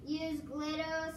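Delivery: slow, even robot voice. Acted. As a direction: talk like a robot, slowly. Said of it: "I'm doing my robot voice".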